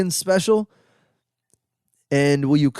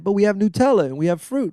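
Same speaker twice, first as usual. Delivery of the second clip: higher-pitched, puzzled food-stall vendor; lightly mocked, higher incredulous protest; baffled vendor protest; 6 semitones higher than usual. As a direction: imitate a vendor who thinks the customer is crazy. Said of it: "they would always look at me like I'm crazy".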